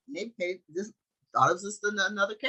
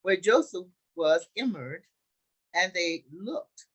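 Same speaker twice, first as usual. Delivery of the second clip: loud, deliberate scripture reading; 3 semitones higher, 4 dB louder, slower than usual. A narrator's reading. Teacher reads the Joseph story to the group, deliberate scripture reading. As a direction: read it out slowly in weighty phrases.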